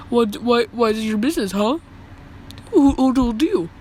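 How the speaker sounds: imitating a defensive comeback, tripping on the question. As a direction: fire back defensively, as if challenged. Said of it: "she's getting all defensive".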